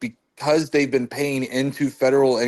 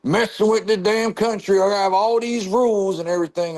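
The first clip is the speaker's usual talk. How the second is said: Southern redneck voice; 7 semitones higher than usual. Retold or imitated. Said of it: "who was talking about".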